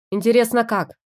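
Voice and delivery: loud sarcastic retort; snapped back. Acted. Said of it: "огрызнулась я".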